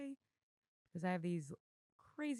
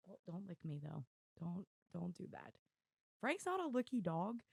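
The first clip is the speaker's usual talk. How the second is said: ordinary talk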